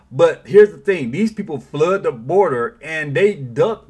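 slow, loud and deliberate, leaning on here's; emphatic turn. Real, not acted. Host to viewers, turning the argument: slow, loud emphasis. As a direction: plant the turn of the argument hard, slowly. Commentator builds to his point.

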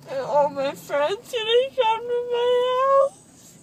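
crying. Real, not acted. Groggy daughter crying about friends.

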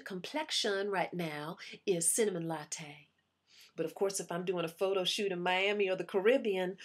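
put-on lightly drawled Southern belle accent, sweet and proud; a hint of a Southern belle accent, bragging to her diary. Actress bragging to her diary in a Southern belle accent. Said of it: "this little accent I have on right now".

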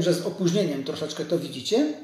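ordinary talk

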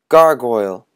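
loud high gargoyle growl. Acted. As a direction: announce it as a monster. Boy announcing costume.

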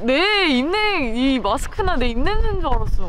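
muffled behind mask; speaking into fabric; through a face mask. Real, not acted. Seen 2: Cloth face mask covers her mouth throughout labelled words.

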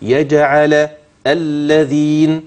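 يجعل light single lam, الذين slow doubled lam; الفرق بين اللام المحركة والمشددة; lam contrast. Shown as a demonstration. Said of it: "تسمع الفرق بين اللام المحركة واللام المشددة".

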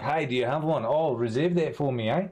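put-on slipping into an Australian accent; phone inquiry in an accidental Aussie twang. Streamer acting out calling shops for a graphics card, Aussie accent. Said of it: "I definitely went Aussie".

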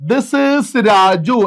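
very slow, word by word for the class; slow teacher read-aloud; slow dictation. Shown as a demonstration. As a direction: spell out "this is Raju" slowly so students can repeat. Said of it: "എങ്ങനെ പറയാ?".

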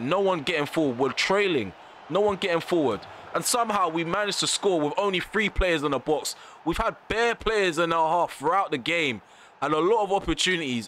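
rising, exasperated rant about his players. Real, not acted. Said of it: "I'm really, emotionally, I'm up to here".

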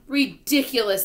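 high, loud dismissal; outraged exclamation; scornful shout. A narrator's reading. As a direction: shout it down in disbelief. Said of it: "they shouted".

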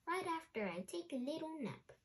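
sleepy yawn through words. Acted. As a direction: say it mid-yawn, drowsy. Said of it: "he yarned".

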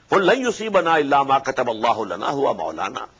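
quick, even recitation of the verse; Quran recitation. Acted. Preacher citing Surah At-Tawbah, swift recitation. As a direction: run the Arabic verse through swiftly.

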